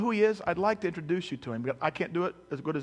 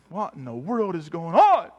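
acted freaking out; 7 dB louder, slower than usual. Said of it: "the disciples kinda weird out".

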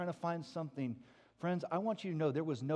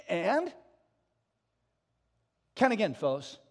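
mock patient questioning, higher and louder; teasing prompt; 4 semitones higher, 7 dB louder than usual. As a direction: nudge them to look again. Jesus voiced prompting disciples.

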